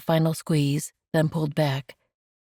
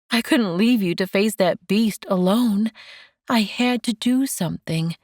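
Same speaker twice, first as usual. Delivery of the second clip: lightly raised, tender woman's voice; gentle Mandy; 5 semitones higher than usual. Acted. Mandy comforting Enoch, lightly raised and tender.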